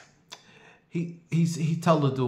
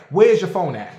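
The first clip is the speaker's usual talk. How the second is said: louder, hard demand; 4 semitones higher, 6 dB louder than usual. Retold or imitated. To the accusing man, loud demand. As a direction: bark the question at him.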